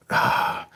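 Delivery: soft, voiceless exhale; weary "ah" of failure; defeated sigh. Retold or imitated. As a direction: let the breath fall out in defeat.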